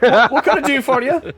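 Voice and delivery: put-on high, loud, impatient dwarvish accent; annoyed dwarf. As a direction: ask as a slightly annoyed dwarf smith. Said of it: "looks at you kind of annoyed".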